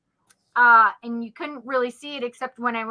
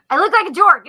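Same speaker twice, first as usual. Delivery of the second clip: laughing; 6 semitones higher, 9 dB louder, faster than usual. Real, not acted. Laughs at her own look.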